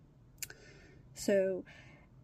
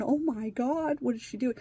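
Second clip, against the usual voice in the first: somewhat higher imitation of alarmed disbelief; retold freaking out; 4 semitones higher, 3 dB louder than usual. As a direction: act out a dismayed teen. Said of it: "he's sitting there freaking out".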